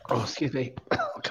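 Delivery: choking on a sweet; strained voice after coughing; swallowed wrong way. Real, not acted. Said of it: "The Caramello went down the wrong way".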